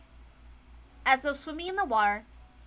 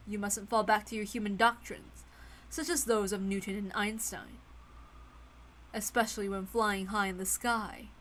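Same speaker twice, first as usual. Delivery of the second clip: witch voice; 4 semitones lower, 4 dB quieter than usual. Acted. Witch Beto teaches George flight.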